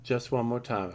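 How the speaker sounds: put-on southern accent. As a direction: gush it like a Southern grandma calling you sugar. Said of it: "why I had a southern accent there".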